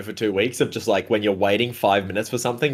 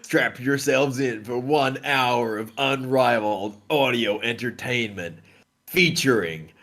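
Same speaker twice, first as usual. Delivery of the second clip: announcer voice; slower than usual. Pretend. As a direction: roll it out like a radio host. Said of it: "I'm doing the intro".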